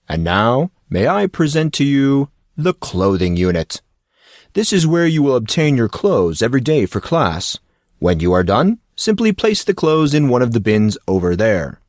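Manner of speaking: lightly voiced grandiose coach, overly polite; a hint of a theatrical, courtly gym coach; formal coach. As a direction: play the pompous gentleman coach. Coach Hawk presenting unit.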